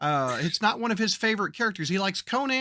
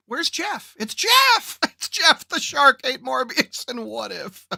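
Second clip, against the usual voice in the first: excited chat quote; 5 semitones higher, slower than usual. Retold or imitated. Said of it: "Laura in chat goes".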